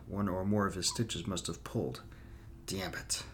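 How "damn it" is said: muttered under the breath; whispered curse. Acted. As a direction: hiss it to yourself. Gareth sees wound bleeding again.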